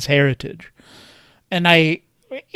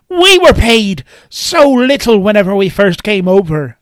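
retold grandfather; 4 semitones higher, 3 dB louder than usual. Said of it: "where the grandfather says".

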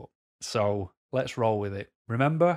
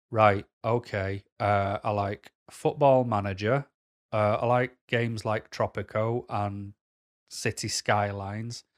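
boring weirdo; 2 semitones lower, slower than usual. Retold or imitated. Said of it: "the most boring weirdo you've met".

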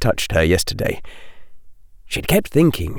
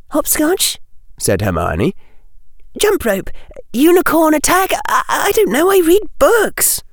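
put-on high girl's voice, rising into giggly fluster; young girl Hermione. A narrator's reading. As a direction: rattle off guesses, then give up sheepishly.

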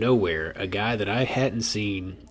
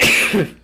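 loud cough; 11 semitones higher, 10 dB louder than usual. Real, not acted. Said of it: "cause you ate that fucking bat".

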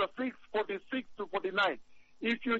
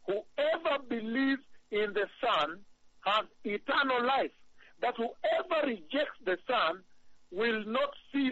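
scripture reading. Acted. Reads scripture aloud slowly.

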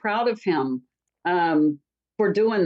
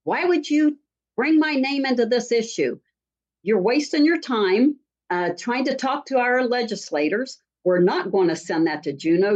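mild mock yell, raised and emphatic; retold angry scream. Woman retelling the mayor's angry phone call, mildly worked-up scolding. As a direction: imitate an irate caller's scolding, only half-heartedly. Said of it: "screaming at me and saying".

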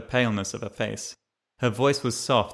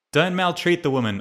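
higher, louder protest; 7 semitones higher, 4 dB louder than usual. Acted. Narrator objecting to the militiaman handling the old woman, loud protest. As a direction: step in and object to the soldier. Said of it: "I protested".

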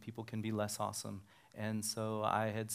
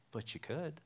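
higher, mildly coaxing imitation; lightly voiced coaxing bride; 6 semitones higher, 4 dB quieter than usual. Bride pressing a reluctant pastor, lightly imitated coaxing. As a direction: coax lightly in a raised voice.

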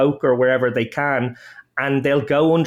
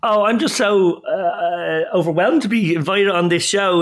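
mock gushing; 4 semitones higher than usual. Mock gushing over the invite.

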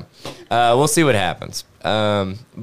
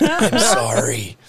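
laughing; much slower than usual. Retold or imitated. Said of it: "and I'm like".

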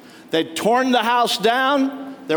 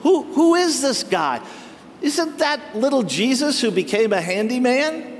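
mocking insult; 4 semitones higher than usual. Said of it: "they meant that as an insult".

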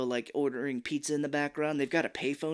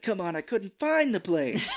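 higher, slow pleading; whiny excuse; 7 semitones higher, 3 dB louder than usual. Retold or imitated. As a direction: plead laughingly. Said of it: "he's like".

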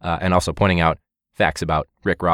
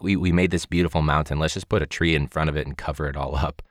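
Bob Ross; 2 semitones lower, 4 dB quieter than usual. Retold or imitated. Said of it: "for him, crazy is like".

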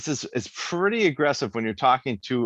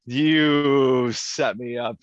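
slow emphatic; much slower than usual. Real, not acted. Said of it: "Oh, you set me up".

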